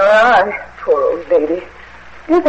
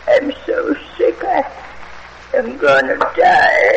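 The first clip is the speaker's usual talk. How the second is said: feeble moaning; 4 semitones higher, slower than usual. Acted.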